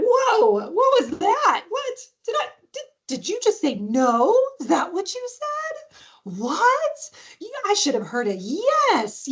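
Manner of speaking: high, swooping pretend shock; playful mock disbelief. Shown as a demonstration. Parent defusing child's no, playfully incredulous. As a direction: act comically baffled by what you heard. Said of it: "just trying to diffuse it".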